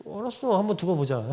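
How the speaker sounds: quietly store up revenge; vengeful. Acted. Wronged person vowing to get even, quiet and vengeful. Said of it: "그때부터 이제 복수심 발동하고".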